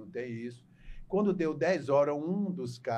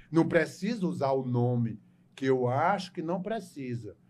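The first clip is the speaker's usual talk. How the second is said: normal talking voice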